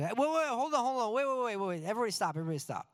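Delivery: high, rapid-fire "wait, wait"; urgent halt. Retold or imitated. Teacher halting a class mid-song, urgent. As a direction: cut everyone off in a mock flap. Teacher abruptly halts the singing.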